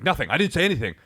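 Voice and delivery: high defensive denial; mocking driver. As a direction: mimic him playing innocent. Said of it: "he's like".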